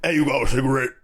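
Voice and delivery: a light imitation of a hard-to-understand stranger; stranger's mumble. Homeless man asking the friends for a cigarette, lightly imitated. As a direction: lightly voice the guy asking for a smoke. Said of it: "This is how he talked".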